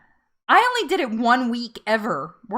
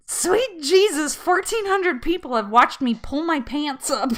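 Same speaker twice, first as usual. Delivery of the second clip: high, stretched opening, tipping into laughter; aghast at yourself but finding it hilarious; mock mortified disbelief; 4 semitones higher than usual. Vlogger realizing viewers saw the leggings moment, mock mortified disbelief.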